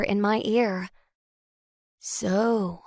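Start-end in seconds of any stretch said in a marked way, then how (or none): 2.0-2.8 soft, drawn-out male voice with playful irony; a suave tease, kept soft. A narrator's reading. Mystery man leaning close to her ear, playfully ironic. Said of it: "he says with playful irony".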